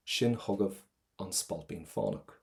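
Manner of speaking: "hugav" ending on a clear V; careful model reading, landing the V on "hugav"; clear V sound. Shown as a demonstration. Teacher models the poem line, audible V ending "hugav". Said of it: "I want that V sound".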